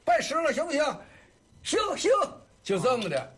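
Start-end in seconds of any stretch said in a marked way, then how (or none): 0.1-2.1 retold exchange.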